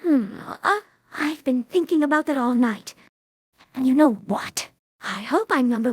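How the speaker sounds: choked, crying voice; Rarity weeping over being on the list; tearful. Acted. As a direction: speak through tears.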